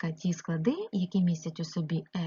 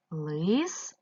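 "Листопад" in three drawn-out, separate syllables; split into syllables; 3 semitones lower, slower than usual. Shown as a demonstration. Teacher dividing a word for pupils, syllable by syllable. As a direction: pause after each syllable of "Листопад". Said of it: "поділити ці слова на склади".

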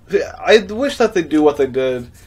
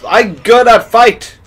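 goofy boast; 9 semitones higher, 12 dB louder, much slower than usual. Pretend. Silly boast.

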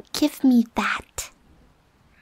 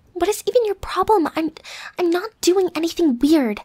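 higher-pitched, defensive protest; 4 semitones higher than usual. Acted. Roommate protesting the cuddling is innocent, defensive. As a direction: push back, indignant at the objection. Acted quarrel over cuddling.

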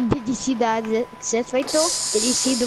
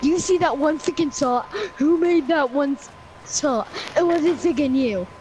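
mock trash talk; 4 semitones higher than usual. Teammate imitating his friend's bragging, mild mock gloat. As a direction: throw his bragging back in his face. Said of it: "that's what you freaking sound like".

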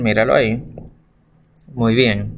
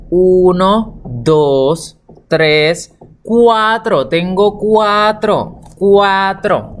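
stretched teacher's counting, higher on the number; drawn-out counting; 4 semitones higher, much slower than usual. Shown as a demonstration. Teacher counting aloud for pupils, drawn out. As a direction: count slowly and clearly for a young learner.

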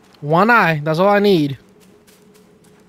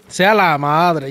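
Spanish slips out; 3 semitones lower, slower than usual. Real, not acted. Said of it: "my Spanish comes out".

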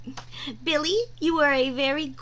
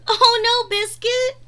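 mock alarm; 7 semitones higher, 6 dB louder than usual. Dog shaking water off.

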